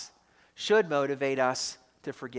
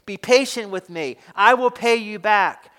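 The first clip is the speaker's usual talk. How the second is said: louder, pressing plea; begging; 3 semitones higher, 5 dB louder than usual. Acted. Servant on his knees begging for patience, louder plea. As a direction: beg him out loud, insistent. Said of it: "begged him".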